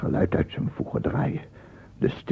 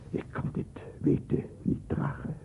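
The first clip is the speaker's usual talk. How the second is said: a whisper that almost gives out; whispered despair, much softer; broken whisper; 9 semitones lower, 10 dB quieter than usual. Acted. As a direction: sink under the weight of it. Despair after a long confession.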